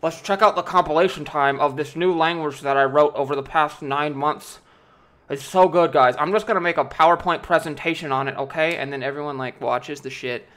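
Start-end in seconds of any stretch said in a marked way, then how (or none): 0.0-8.8 mock hardcore nerd. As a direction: parody a nerd bragging about his compiler. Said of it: "the hardcore nerds that are like".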